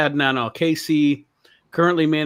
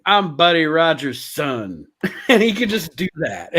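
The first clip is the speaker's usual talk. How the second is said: laughing; 4 semitones higher, 3 dB louder than usual. Retold or imitated. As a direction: laugh through the boast. Mocking a fake wrestler's claim.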